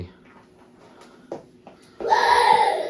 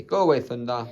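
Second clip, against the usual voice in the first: laughing; 4 dB louder than usual. Shown as a demonstration.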